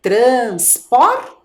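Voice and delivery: "Transporte" as drawn-out trans, por rising, pause, te; syllable by syllable. Shown as a demonstration. Teacher confirming the last syllable for children, syllable by syllable. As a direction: sound out "Transporte" with te set apart. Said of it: "a sílaba T".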